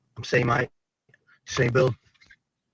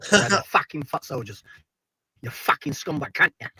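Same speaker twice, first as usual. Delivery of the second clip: put-on Pat Tate accent; 4 semitones higher than usual. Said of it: "trying to do the Pat Tate accent".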